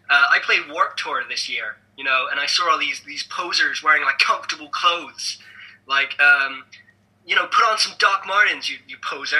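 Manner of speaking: hammy American accent mocking a celebrity; deliberately awful American accent; bad American accent. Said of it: "the worst American accent you've ever heard".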